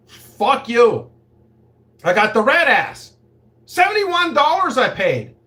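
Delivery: high, loud indignant yell; mock angry shout. Refusing the madam's offer, mock angry shout. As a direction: shout back in mock outrage.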